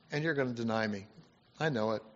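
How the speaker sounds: low, soft, resigned mock Jesus; cold, wrong reading. Preacher shows how Jesus did not say it to Peter, resigned and cold. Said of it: "That's not how he said it".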